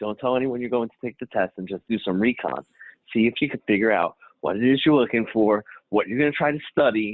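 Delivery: heavy, really low, deep voice. Speaker retells what a woman told him, in her really low voice. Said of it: "She got a really low voice".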